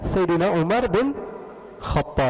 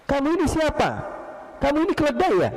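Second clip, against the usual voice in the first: angry retort; 11 semitones higher, faster than usual. Retold or imitated. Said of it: "Dia bilang".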